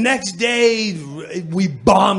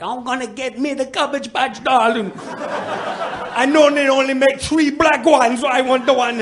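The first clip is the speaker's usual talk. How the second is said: customer voice; 8 semitones higher than usual. Retold or imitated.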